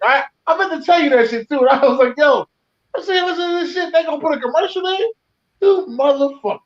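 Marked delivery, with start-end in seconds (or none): 2.2-6.6 retold anger. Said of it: "I was mad".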